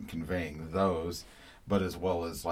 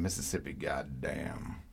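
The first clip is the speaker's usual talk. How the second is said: whisper; 3 semitones lower, 3 dB quieter than usual. Real, not acted. Host names song title.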